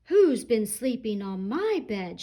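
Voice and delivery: lightly voiced mama bear; firm middle voice of a mother; medium mama rhino. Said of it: "shouted Mama Rhino in her medium-sized voice".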